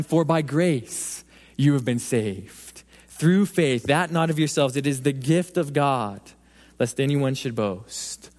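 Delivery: slow, hushed scripture reading; lingering on each phrase of the verse. Acted. Preacher reading Ephesians to the congregation, slow and hushed.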